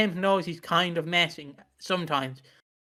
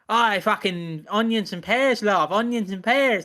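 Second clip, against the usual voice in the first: lightly hammed-up Cockney geezer; mock sweary London actor, slightly lifted pitch; Danny Dyer; 3 semitones higher than usual. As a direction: play a swearing Cockney barrow boy. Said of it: "like, how Danny Dyer, you know".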